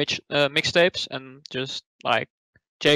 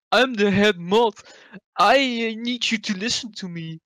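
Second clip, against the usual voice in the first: bossy head mod; 5 semitones higher than usual. Retold or imitated. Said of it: "you didn't do an impression of Yannico?".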